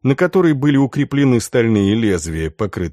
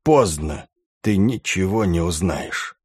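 low, choked dying gasp; death rattle; 3 semitones lower than usual. Acted. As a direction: force the words out through blood. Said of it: "вытолкнул брат Готфрид вместе со сгустком крови".

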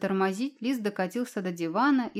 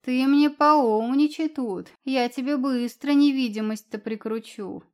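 slow, much louder scolding at the start; angry threat; 4 semitones higher, 5 dB louder than usual. Acted. Cat threatening the cheeky fox, angry. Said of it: "рассердился не на шутку".

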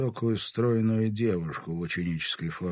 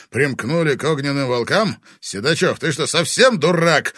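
loud, higher angry question; 6 semitones higher, 9 dB louder than usual. A narrator's reading. Vladimir angrily questions the boy. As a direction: demand it in anger. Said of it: "злобно спросил Владимир".

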